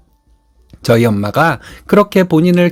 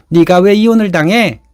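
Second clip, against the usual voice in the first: raised, higher retold shout from the mother-in-law; a retold yell, pitched up and louder; mild mock yell; 4 semitones higher, 3 dB louder than usual. Mother-in-law yelling at her son, mock shout. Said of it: "시어머니가 소리를 지르더군요".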